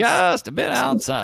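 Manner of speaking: high, stretched-out broadcast call; sportscaster catchphrase. Retold or imitated. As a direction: draw it out like a ballpark announcer. Quoting Uecker's famous movie call.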